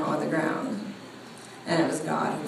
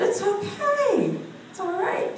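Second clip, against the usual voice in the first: high-pitched, mock-soothing comfort; retold reassurance; 14 semitones higher, slower than usual. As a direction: soothe a panicked seatmate in a high voice. Soothes panicking passenger in retold scene.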